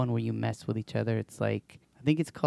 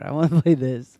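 put-on laughing kid whine; 3 semitones higher, 7 dB louder than usual.

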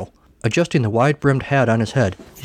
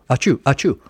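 mock sneeze; 3 semitones higher than usual. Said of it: "Down there. You know".

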